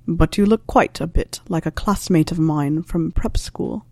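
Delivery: a lightly voiced wry old teacher, unhurried; dry Snape voice.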